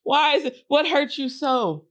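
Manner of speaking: mock tearful sympathy. Woman moved by a crying man, mock tearful sympathy. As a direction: draw the question out with a touch of tears. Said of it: "I'm going to cry".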